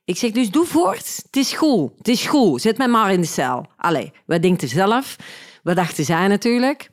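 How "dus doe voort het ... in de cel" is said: high, mock-cheerful sarcasm; sarcastic. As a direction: cheerfully tell the cops to go ahead, sarcastically. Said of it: "Mijn sarcasme en mijn cynisme". (sarcastisch, hoog en overdreven vrolijk)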